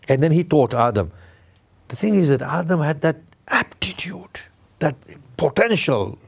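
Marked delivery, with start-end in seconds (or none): 1.9-6.2 whispered aside, voice dropped to breath. Real, not acted. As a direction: lean in and whisper it to the congregation. Confiding aside in sermon.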